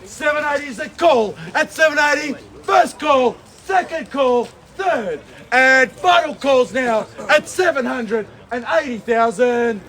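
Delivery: rapid ringing auctioneer call; auction caller. Real, not acted. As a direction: drive the bidding like an auctioneer. Auctioneer calling bids.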